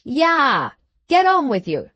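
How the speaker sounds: loud urging shout; shouting at horses. A narrator's reading. Coachman urging horses uphill.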